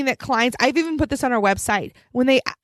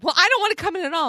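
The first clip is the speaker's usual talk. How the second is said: quick, higher mock huff; snippy, whiny; 5 semitones higher, faster than usual. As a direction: imitate a snippy caller, fast and a bit high. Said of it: "really snippy, really whiny".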